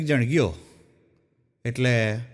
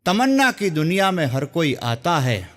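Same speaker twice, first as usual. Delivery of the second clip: shayari recital; 2 semitones lower than usual. Shown as a demonstration. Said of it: "એક સુંદર મજાની શાયરીથી".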